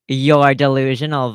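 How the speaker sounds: loud, drawn-out accusation; emphatic accusation. Acted. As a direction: throw it at them slowly and loudly. Acted retort from online argument.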